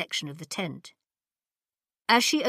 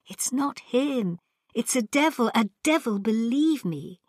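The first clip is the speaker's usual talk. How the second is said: fearful insisting; 5 semitones higher than usual. Acted. Ping Cho fearful insisting.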